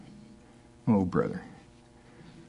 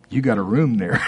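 joyful laugh through the words; 3 semitones higher than usual. Real, not acted. Preacher to congregation, laughing with delight. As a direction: chuckle it out, delighted. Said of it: "I'm excited about that".

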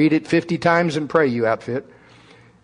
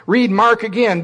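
drill sergeant; 6 semitones higher, 4 dB louder than usual. Retold or imitated. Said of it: "drill instructor".

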